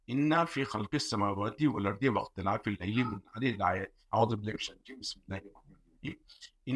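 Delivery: rushed Quranic recitation, chanted in a run; hurried Arabic recitation of the ayah, the isti'adha nearly voiceless; quick Quran recitation. Real, not acted. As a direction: recite the verse quickly so as not to lose it. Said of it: "मैं जल्दी से पढ़ना".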